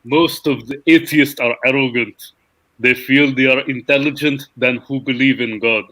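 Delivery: put-on Russian accent. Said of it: "All right, I'll try Putin".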